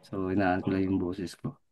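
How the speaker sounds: mas mahinang boses, totoong hininaan. Real, not acted. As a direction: hinaan ang boses dahil may natutulog. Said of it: "hinaan ko lang boses ko". (mahinang pagsasalita para hindi magising ang kapitbahay)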